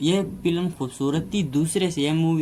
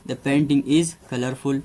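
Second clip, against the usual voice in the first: slow dictation; much slower than usual. Shown as a demonstration.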